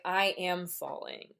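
slow line leaning on "am"; deliberate emphasis on "am", unhurried; stress on AM. Retold or imitated. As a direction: draw out and emphasize the word "am". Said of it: "You always emphasize that second syllable".

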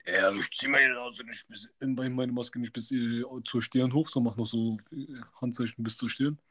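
slow, sarcastic, dragging each word; mock her annoyed exaggeration slowly; fed-up sneer. Customer sneering at the mask warden, slow and fed up. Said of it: "aber voll abgefuckt".

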